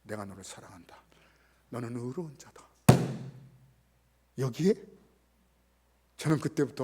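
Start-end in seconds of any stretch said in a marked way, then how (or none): 0.0-2.7 low, soft, breathless whisper of love; God whispering love to the boy; whispered tender words. Retold or imitated. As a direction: whisper God's love as a secret. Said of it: "거룩하신 하나님께서".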